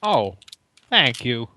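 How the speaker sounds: put-on Brooklyn accent; drawn-out pauses in a Brooklyn innkeeper accent; Christopher Walken. Innkeeper thanking a cleric for gold, Brooklyn accent. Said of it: "Simon, I appreciate accent".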